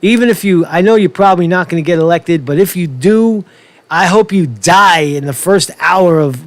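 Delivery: a hint of a scheming politician; mock Kamala inner voice. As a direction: gloat through a fake polite thank you. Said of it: "what she'd really like to say is".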